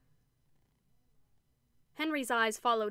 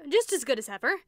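pleasantly; 4 semitones higher, 8 dB louder than usual. A narrator's reading. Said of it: "he said pleasantly".

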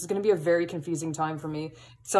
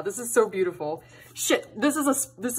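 holding back tears; 2 semitones higher than usual. Real, not acted. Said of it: "I'm trying hard not to cry right now".

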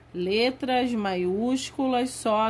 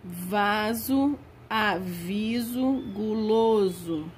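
slow, drawn-out dictation; dictating words slowly; slower than usual. Shown as a demonstration. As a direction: drag each word out for the kids to copy.

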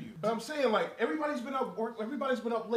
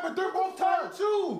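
raised voice; 4 semitones higher, much slower than usual. Real, not acted. Heated argument, raising voice.

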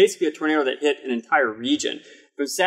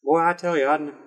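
higher hammed-up Midwestern farm-boy; Midwestern accent; 4 semitones higher than usual. Co-host parodying how people mock Midwestern accents. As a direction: spin a yarn as a Midwest yokel. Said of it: "makes fun of accents like that".

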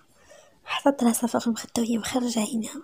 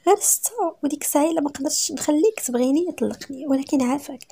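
higher-pitched, urgent begging; desperate pleading; 5 semitones higher than usual. Acted. Wife begs husband for six months before divorce, desperate pleading. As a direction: bargain pleadingly for more time.

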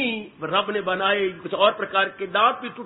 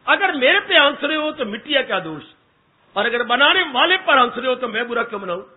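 louder, pointed challenge to the ministers; demanding poet confronting laughing ministers; raised challenge; 2 semitones higher, 4 dB louder than usual. Acted. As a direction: call the court out, voice up.

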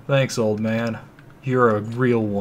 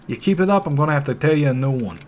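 higher, louder threat, quick; thug threat; 4 semitones higher, 4 dB louder, faster than usual. Acted. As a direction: warn him off hotly.

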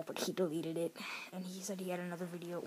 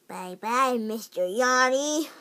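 mock farewell to a yawn; 6 semitones higher, 12 dB louder, slower than usual. Shown as a demonstration. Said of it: "Like, just say".

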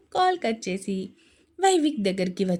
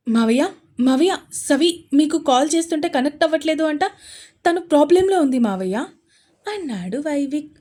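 frantic report; 3 semitones higher, 6 dB louder than usual. Acted. Frantic call to uncle.

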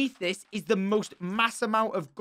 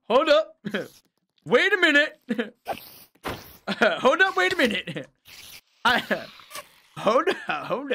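high, loud laughing hold-up; laughing disbelief; 7 semitones higher, 6 dB louder than usual. Real, not acted. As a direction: laugh through the words in disbelief.

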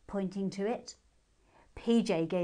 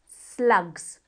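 brave exclamation; 9 dB louder than usual. A narrator's reading. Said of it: "her special nighttime word".

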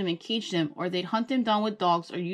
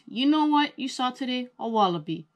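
lightly voiced grandma; 6 semitones higher, 4 dB louder than usual. A narrator's reading. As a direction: speak as a fond grandma.

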